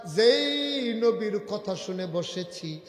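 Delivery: slow, melodic preaching chant; retold tearful vow. Companion swearing not to go home, slow chanted plaintive vow. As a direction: draw out the oath and hold the final word. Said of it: "সাহাবা চোখের পানি ছেড়ে দিয়ে কয়".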